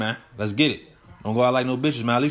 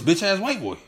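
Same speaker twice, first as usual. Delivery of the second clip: quoting the insult; 5 semitones higher than usual. Retold or imitated. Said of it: "all he said was".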